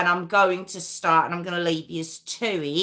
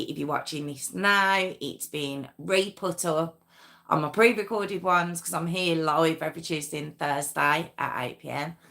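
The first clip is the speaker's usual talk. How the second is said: lightly presented channel intro read; hint of a host's opening spiel; 3 semitones lower than usual. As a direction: welcome the viewers as the show's host. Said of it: "start me intro now".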